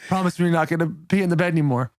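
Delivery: low, quick, no-nonsense request; undisguised Santa. Retold or imitated. The speaker as Santa asking Win for a promise, low and deadpan. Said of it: "without changing his voice".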